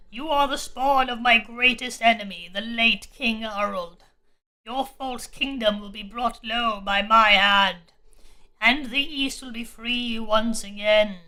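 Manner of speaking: slow, low solemn demon king; a lightly voiced cursed king, slow and heavy. Demon declares vengeance.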